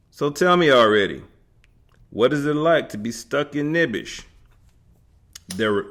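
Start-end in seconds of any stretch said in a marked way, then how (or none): 0.1-4.2 put-on quick, lively Yiddish accent, raised pitch. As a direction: ask it with a bubbly Yiddish accent. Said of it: "asked each person in a Yiddish accent".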